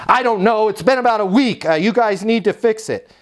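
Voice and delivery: high, protesting resident voice; upset resident complaining. Acted. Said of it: "current resident that's upset".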